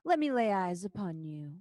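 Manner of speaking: a hint of a silky spider lady; lightly voiced, smooth coaxing creature. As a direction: spider lady luring the brave hero in, silky. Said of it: "in that same silky voice".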